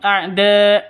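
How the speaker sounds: A'DA held long, then stopped on the hamzah; sukun ending. Shown as a demonstration. Teacher showing sukun when stopping, A'DA cut off. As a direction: chant A'DA with no vowel after the final stop. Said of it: "berubah menjadi sukun".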